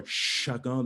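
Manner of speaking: "chacun" with a long, hissed opening "ch". Shown as a demonstration. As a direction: lean hard into the first consonant of "chacun". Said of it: "using a little bit more".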